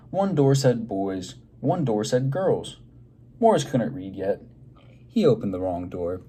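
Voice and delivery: lively, expressive read-aloud for a class; reading to children. Acted. Teacher reading a picture book aloud to her class, lively and expressive. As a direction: draw the kids into the story.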